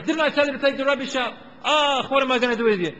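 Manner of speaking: loud, high exasperated nagging; shrill mock telling-off from a tired parent; fed-up parent yelling. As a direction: let the frustration boil over at the kid. Parent repeating ignored order.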